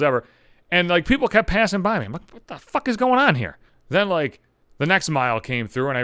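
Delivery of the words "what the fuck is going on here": higher-pitched exasperated disbelief; baffled and put out; bewildered outburst. Acted. Runner baffled as people keep passing by, bewildered outburst. Acted bewilderment at being passed.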